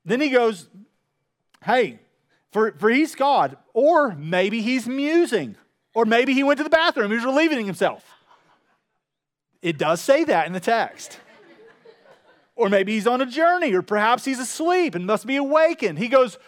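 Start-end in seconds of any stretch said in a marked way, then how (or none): 1.6-8.0 playful, jeering sarcasm; mocking. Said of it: "Elijah began mocking them". 12.5-16.0 raised, teasing voice; mocking. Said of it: "Elijah began mocking them".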